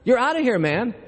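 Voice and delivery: high, exasperated boss telling him he's out; firing director. Retold or imitated. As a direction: throw the actor out, fed up. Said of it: "He says".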